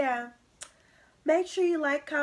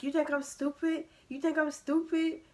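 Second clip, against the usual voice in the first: retold accusing mom; 4 semitones higher, 5 dB louder than usual.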